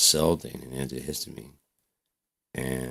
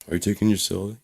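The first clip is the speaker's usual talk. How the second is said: higher-pitched, pressing question; a parent demanding an answer; nagging parent; 6 semitones higher, faster than usual. Retold or imitated. Parent checks on the teen's medicine, nagging.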